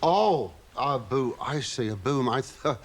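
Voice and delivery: ooh-ing over the microphone boom in the comic voice; Frankie Howerd voice. Acted. Guest puzzles over the boom microphone, as Frankie Howerd. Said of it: "that's just like him".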